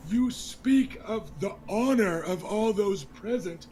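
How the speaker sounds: scornful, stress on speak; young lord mocks the king's toast, angrily; bitter mocking echo. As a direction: spit the king's own words back at him. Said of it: "raises his voice".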